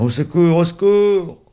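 loud, rising to a high panicked cry; crying for help. A narrator's reading. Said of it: "la puce court en criant".

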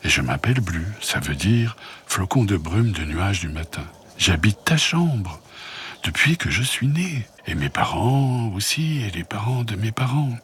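a tiny dust-fluff creature introducing itself, gently; little bouloche creature. Acted.

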